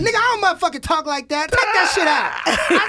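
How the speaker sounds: hammed-up boss telling him off; mock angry Pat. Imitating Pat's angry refusal.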